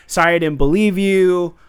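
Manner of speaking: high, loud, hammed-up sisterly apology; mock melodrama. Podcaster mocking the sisters' reunion dialogue, high melodrama. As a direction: overplay the heartfelt lines, breaking into laughter.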